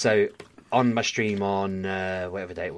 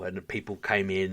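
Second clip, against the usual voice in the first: normal talking voice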